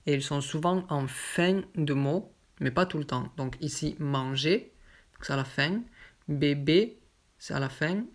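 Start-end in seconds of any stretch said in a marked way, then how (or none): 4.0-4.7 manger ending on a closed é; acute ending. Shown as a demonstration. Teacher reads examples of word endings, closed é in manger. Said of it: "ces motifs se prononcent E". 6.3-7.0 Bébé with two closed é vowels; acute E sound. Shown as a demonstration. Teacher reads examples to learners, closed é in Bébé. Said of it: "ces motifs se prononcent E".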